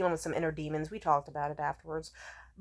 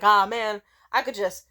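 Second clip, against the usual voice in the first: put-on drunk tough guy; 7 dB louder than usual. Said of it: "being like".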